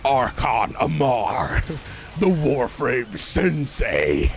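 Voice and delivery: slow, drawn-out mock announcer; grand title announcement. Streamer grandly announcing his new title, mock announcer. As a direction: proclaim the title like a herald.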